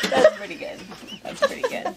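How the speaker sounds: high, giggling words; a co-host cracking up at the story; laughing. Real, not acted. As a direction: say it through laughter.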